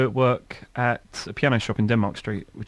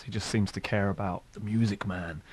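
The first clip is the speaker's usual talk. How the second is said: put-on light Jamaican accent on the boss; a hint of a Jamaican lilt; 8 dB quieter than usual. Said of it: "That was actually a Jamaican accent".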